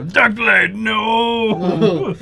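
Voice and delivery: high, loud cry of horror; anguished shout. Acted. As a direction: scream his name in shock. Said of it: "I'm gonna be like".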